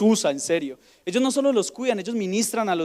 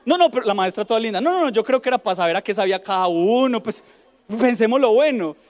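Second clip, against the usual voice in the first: sweet excuse; 3 semitones higher, 5 dB louder than usual. Retold or imitated. Teacher sweetly excuses the child.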